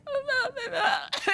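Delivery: soft, high mumbled noises imitating a whisper; high, hushed mock mumbling. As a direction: mumble a secret in a small voice. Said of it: "and I whisper it to the lady".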